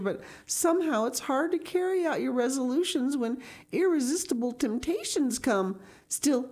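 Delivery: lightly voiced earnest girl, tone lifted; a touch of girlish rapture and earnest resolve; prattling Anne. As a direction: gush on in eager, dramatic swoops.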